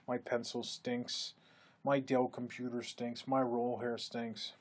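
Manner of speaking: slow, mopey mock complaining; imitating a sulky employee moaning about everything; whiny victim. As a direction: sulk through the list like a gloomy victim. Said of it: "they're the apathetic victim".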